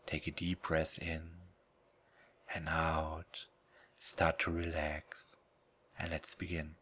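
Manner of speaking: soft close whisper, slowing down; right in your ear. Acted. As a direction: breathe the words into their ear. Starts the trance induction.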